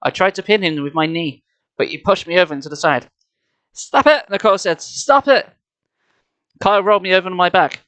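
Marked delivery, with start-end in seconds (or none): 3.7-4.3 high, urgent little yell; urgent cry. A narrator's reading. Nicole to the fighting boys, urgent. Child yells to stop a fight. 4.8-5.5 high, urgent repeated yell; urgent cry. A narrator's reading. Nicole trying to stop the fight, urgent.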